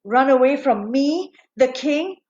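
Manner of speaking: slow, menacing royal indignation; furious king. Acted. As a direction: draw out the threat like an outraged king. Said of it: "he was furious. He was livid".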